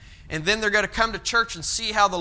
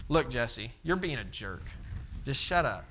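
blunt friend, lowered; 5 semitones lower, 8 dB quieter than usual. Retold or imitated. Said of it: "friend who can tell me".

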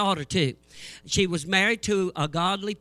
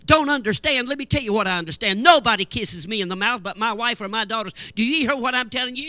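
mock anger; 3 semitones higher, 5 dB louder than usual. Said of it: "he's mad as hot".

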